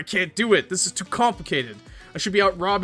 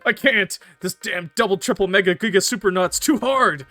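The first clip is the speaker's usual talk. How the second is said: louder, higher whining outburst; frustrated, near tears; 4 semitones higher, 5 dB louder than usual. Acted. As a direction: wail in exasperation. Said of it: "Starts crying".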